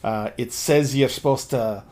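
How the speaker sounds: low, soft character voice; Tuck. Acted. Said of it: "Tuck says".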